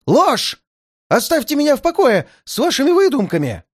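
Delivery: выше и громче, возмущённо; выкрикни обвинение во лжи; крик. A narrator's reading. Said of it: "крикнул". (гневный крик)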